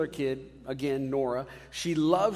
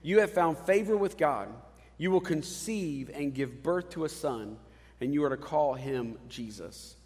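angel speaking. Retold or imitated. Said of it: "the angel said to her".

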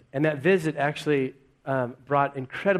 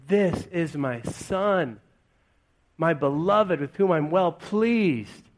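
slow, tender proclamation; slow, loving declaration from heaven; solemn fatherly approval; 2 semitones higher, slower than usual. Retold or imitated. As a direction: savour each word like a proud father. Quoting the voice from heaven.

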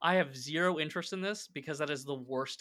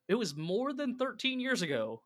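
higher-pitched, exaggerated disbelief; mock indignant retort; 7 semitones higher, 5 dB louder than usual. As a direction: push it up in playful indignation. Acted retort to teacher asking ID.

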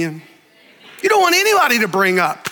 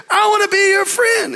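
put-on boy calling into cave; 9 semitones higher than usual. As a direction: call out eagerly into the cave. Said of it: "And the little boy said".

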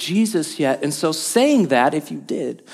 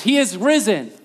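call to congregation; 4 semitones higher than usual. Shown as a demonstration. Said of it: "So let's do that a few times".

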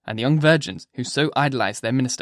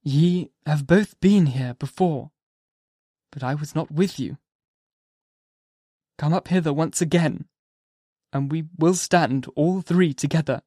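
the minister's invitation; 2 semitones higher than usual. Acted. Minister inviting Hester and Pearl to stand together, slowly. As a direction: invite them slowly and gravely.

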